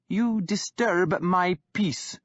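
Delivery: put-on young king holding firm; defiant young king. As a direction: stand your ground, unmoved by the insult. Guthred retorts.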